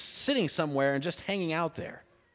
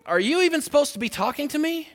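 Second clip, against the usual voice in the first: incredulous; 5 semitones higher than usual. Retold or imitated. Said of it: "She's like".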